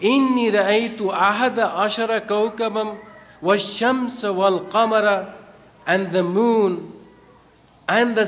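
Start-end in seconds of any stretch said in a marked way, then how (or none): 0.0-5.3 fast, measured Quranic recitation; quick devotional recital of scripture. Acted. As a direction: recite the verse in flowing Arabic cadence.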